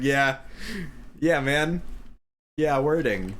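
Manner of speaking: high, laid-back dude agreement; mock bro voice. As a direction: drawl it like a stoner dude.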